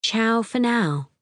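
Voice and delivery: slow, mocking repeat of ciao; sarcastic echo. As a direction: drawl it back in disbelief. Narrator echoes the greeting.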